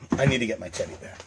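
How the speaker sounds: put-on low, fast, mumbled baby voice; playful whiny child; mock child. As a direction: hurry off like a sulky kid.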